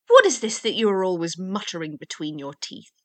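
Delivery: loud, impatient question; blustering storybook interrogation; demanding waggoner. A narrator's reading. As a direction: challenge him forcefully.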